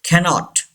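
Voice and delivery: CANNOT as KA-not, one N; single N. Shown as a demonstration. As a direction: glide through "cannot" with one short N. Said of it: "एक एन यहाँ पे pronounce नहीं". (cannot में एक N silent, "कैनॉट")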